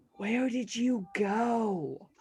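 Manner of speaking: hushed, soft half-whisper, drawn-out go. Going over to a companion while the group recovers, half-whispering. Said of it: "just whisper".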